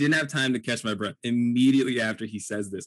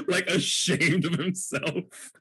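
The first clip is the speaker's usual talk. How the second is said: normal talking voice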